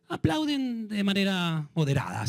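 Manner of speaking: grudgingly measured; measured, moderate. Shown as a demonstration. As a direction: stretch it out reluctantly, holding back. Contrasts moderate applause with loud.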